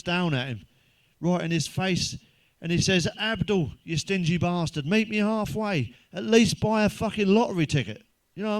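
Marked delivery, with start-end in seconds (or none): 3.2-5.9 an exasperated God bellowing from the clouds; booming God. Acted. 6.1-8.1 booming God. Acted. God's line, then repeated plainly.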